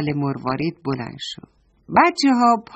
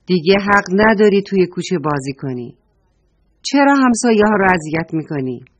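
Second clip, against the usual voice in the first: upset scolding; 5 dB louder than usual. Acted. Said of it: "از دست نمکی ناراحت شده بود گفت".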